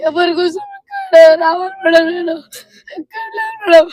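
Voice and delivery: crying and pleading, voice breaking. Real, not acted. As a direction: sob through the words to madam. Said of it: "ఉండు, ఉండు, ఏడవ పెట్ట". (ఏడుస్తూ వేడుకోలు)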